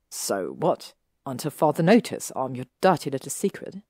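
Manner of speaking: resentful, a frown you can hear. Acted. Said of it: "Draco frowned".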